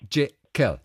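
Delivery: „Geographical“ mit Akzent auf der drittletzten Silbe; Betonung drittletzte Silbe. Shown as a demonstration. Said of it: "die drittletzte Silbe wird betont". („Geographical“ als Betonungsbeispiel vorgesprochen)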